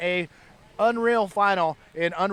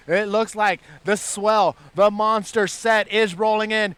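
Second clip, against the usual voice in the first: live surf commentary building, louder towards the end; building excitement; 3 semitones higher, 4 dB louder than usual. Real, not acted. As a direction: build suspense as the wave rolls in. Calling the wave as it arrives.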